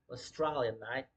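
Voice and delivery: put-on a quick, light Australian accent on "Australia, mate"; tossing off a mock Aussie "mate". Joking to viewers about the Australia show, in a light Australian accent. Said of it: "It's a fucking Australian accent for you guys".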